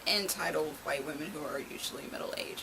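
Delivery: hushed whispered aside; whispering. Real, not acted. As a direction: whisper it like a secret. Aside describing the Karen stereotype.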